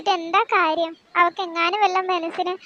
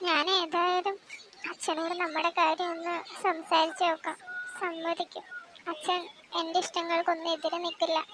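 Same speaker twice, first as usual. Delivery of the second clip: much softer, near whisper on the phone; hushed; 9 dB quieter than usual. Acted. Daughter on phone with boyfriend, speaking hushed.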